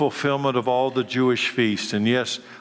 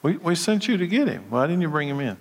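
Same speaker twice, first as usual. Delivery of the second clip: mildly indignant questioning, rising in pitch midway; lightly acted demand for an explanation; 4 semitones higher, faster than usual. A narrator's reading. Priests question the returning temple guards, mildly demanding. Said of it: "the leading priests and Pharisees demanded".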